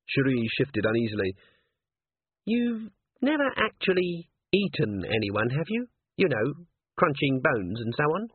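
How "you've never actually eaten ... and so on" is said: uneasy asking. Acted. Uneasy, delicate question to Angua.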